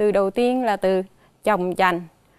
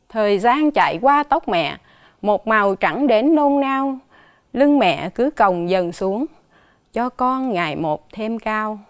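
poem recital. Acted. Teacher reading a poem about mother to the class, measured recital. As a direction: read it like a lullaby poem, gently paced.

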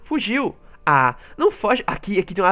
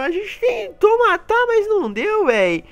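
sad; 7 semitones higher, 4 dB louder, slower than usual. Real, not acted. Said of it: "agora eu tô triste".

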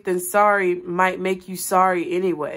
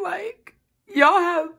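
real crying; 7 semitones higher than usual. Real, not acted. Reader thanking her viewers, crying with a breaking high voice. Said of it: "I'm not crying because I'm sad".

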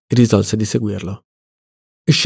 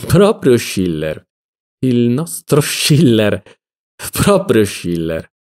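mocking irony; slower than usual. Mocking repetition of Schiller.

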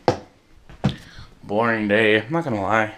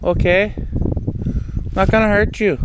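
higher-pitched, coaxing reassurance; reassuring an animal; 4 semitones higher than usual. Real, not acted. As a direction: soothe a wary animal.

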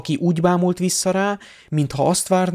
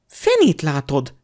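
snapping. Acted. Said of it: "csattant fel a lány".

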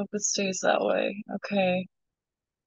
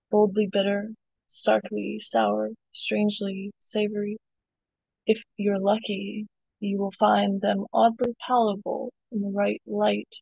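poem reading. Acted. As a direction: read it like a spoken word poem. Reads her poem aloud.

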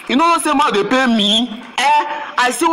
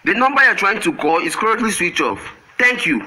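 korean call center politeness; 3 semitones lower than usual. Acted. Automated network operator message again.

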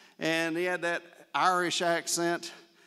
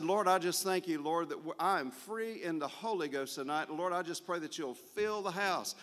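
hushed, earnest retold prayer, much softer; 3 semitones higher, 8 dB quieter than usual. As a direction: pray quietly, almost under the breath. Prayer retold in the dressing room.

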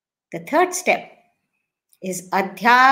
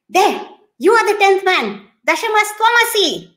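revealing wise man; 9 semitones higher than usual. Acted.

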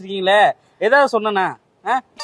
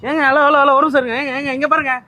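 higher, louder insistent calls; urgent calling out; 4 semitones higher, 3 dB louder than usual. Acted. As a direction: call after someone who is walking off. Calling after the woman walking away.

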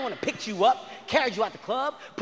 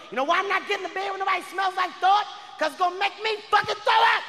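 high-pitched exasperated rant, building to a shout; worked-up rant; 10 semitones higher than usual. Acted. Man refusing to share the bed, worked-up rant. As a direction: climb high with indignation. Acted rant at partner about vomit.

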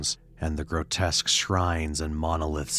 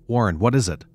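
higher, louder panicked calling; terrified shout; 6 semitones higher, 8 dB louder, faster than usual. Acted. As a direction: call down in panic. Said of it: "Terrified, I continued to repeat".

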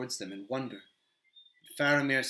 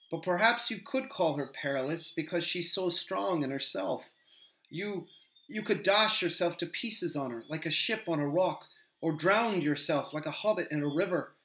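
higher, lively hobbit voice; an earnest young hobbit gushing about the Lady; Sam, eager hobbit; 5 semitones higher than usual. Acted.

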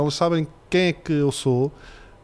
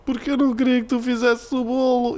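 put-on much higher, whimpering child's complaint; crying little girl; 8 semitones higher than usual. Tearful daughter telling dad not to bake, high mock-crying child voice. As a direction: plead like a tearful small daughter.

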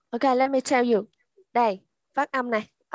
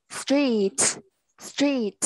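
STREET shorter and faster; quick reading. Shown as a demonstration. Teacher showing the fast reading, STREET said quickly. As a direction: say STREET quickly, still ending on the t. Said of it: "đọc nhanh này".

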